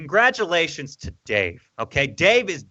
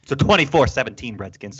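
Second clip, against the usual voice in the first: American accent. Shown as a demonstration. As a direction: back to a plain American accent. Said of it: "that's what it is in American accent".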